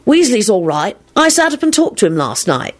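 high-pitched, chatty announcement; high, lilting young man's chatter; young Lupin announcing. A narrator's reading. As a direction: announce it eagerly to a bored friend. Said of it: "the younger Lupin was announcing".

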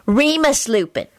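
"Remus Lupin" said precisely and proudly; clearly enunciated. A narrator's reading. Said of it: "enunciated as clearly as Snape".

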